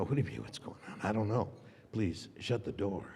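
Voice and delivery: flat retort. Retold or imitated. Retort to producer retold.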